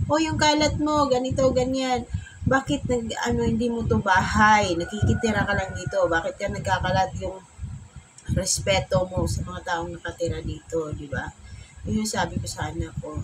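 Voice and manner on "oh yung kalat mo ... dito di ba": nagging scolding. Retold or imitated. Mother nagging her son about his mess, mock scolding. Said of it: "nagyaw-yaw ako".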